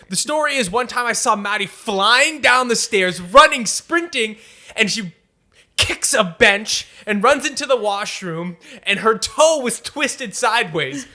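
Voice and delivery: slow, hyped-up storytelling with punched action words; dramatic flair. Shown as a demonstration. The speaker showing how to tell a stubbed-toe story, with dramatic flair. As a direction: spice it up like a wild tall tale. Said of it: "You gotta add the flair to it".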